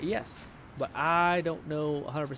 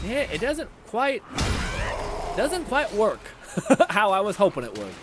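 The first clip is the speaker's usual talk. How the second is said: laughing; 5 semitones higher, 6 dB louder than usual. Real, not acted. Laughs at failed combo.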